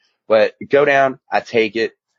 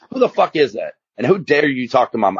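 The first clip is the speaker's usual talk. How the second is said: cussing; 3 semitones higher than usual. Retold or imitated. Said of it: "I was cussing them too".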